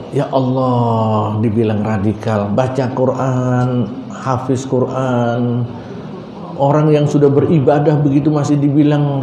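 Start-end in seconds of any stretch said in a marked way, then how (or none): 0.1-5.6 slow, soft sorrowful sigh; lament. Real, not acted. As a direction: mourn it quietly, drawn out. Lament over good deeds labelled. (ratapan pelan dan lirih)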